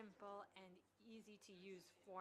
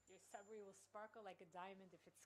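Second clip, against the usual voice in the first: put-on light South African accent, dry judge; a touch of a South African judge. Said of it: "in his South African accent".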